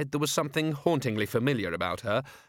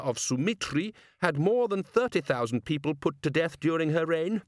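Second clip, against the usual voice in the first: measured, higher-pitched lecturing ruler; lightly voiced patrician, explaining at leisure; learned patrician; 5 semitones higher than usual. Patrician informing his men about Clatchian history, measured lecture.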